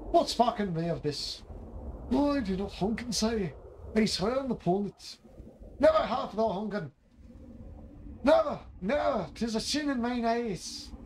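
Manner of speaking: lightly voiced woodcutter and trees in mock archaic speech; a hint of a storybook woodcutter arguing with trees; character voices. Voicing woodcutter and tree characters.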